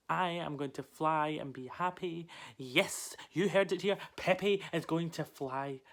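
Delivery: loud, emphatic burst of resolve; jubilant proclamation. Acted. Parrot promises itself happy flight, jubilant and loud. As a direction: declare it to the whole world.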